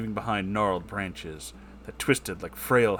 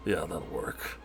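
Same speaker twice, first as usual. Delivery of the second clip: whispered agreement; 4 semitones lower, 10 dB quieter, slower than usual. Acted. Agreeing to the duel.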